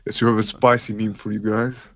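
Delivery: put-on thick Germanic-accented action hero voice; action-star impression. Co-host talking crypto on stream, action-star impression.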